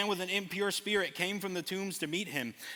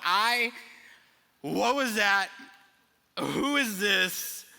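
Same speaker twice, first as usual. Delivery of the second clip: stunned disciples; 4 semitones higher, 5 dB louder, much slower than usual. Retold or imitated. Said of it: "They're like".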